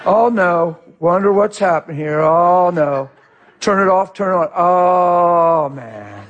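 drawn-out "oh no" of mild dismay; mock bad attitude. Driver whose car starts slow, mock dismayed grumbling. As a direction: act out petty car-trouble despair. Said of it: "We get a bad attitude".

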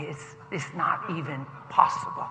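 soft, low, measured delivery; gentle assurance. Retold or imitated. Passenger reassuring a stressed dad, soft and low. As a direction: say it quietly and sincerely. First take of repeated reassurance.

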